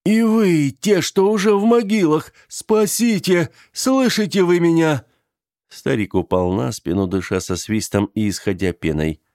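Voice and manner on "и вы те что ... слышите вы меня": high, loud call to the graves; desperate calling. Acted. The old man calls out to the graves, high and loud. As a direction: summon the dead in despair.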